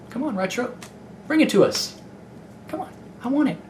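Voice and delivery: high, eager begging; pleading. Real, not acted. Begging the studio for a game.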